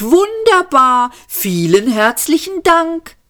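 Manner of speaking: high, mock-grateful yap; sarcastic yapping. A narrator's reading. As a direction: sneer out the thanks. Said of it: "kläffte Seyfort".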